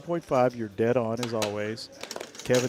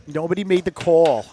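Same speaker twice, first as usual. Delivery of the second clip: higher, louder echo; louder emphatic echo; 5 semitones higher, 9 dB louder than usual. Acted. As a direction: repeat it with a punch.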